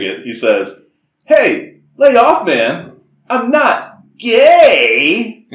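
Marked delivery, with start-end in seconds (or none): 1.2-5.5 high, loud, drawn-out mock dog voice; yelled, stretched-out dog whine; bad Seth Rogen impression. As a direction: ham up the dog's crying protest. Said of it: "a bad Seth Rogen impression".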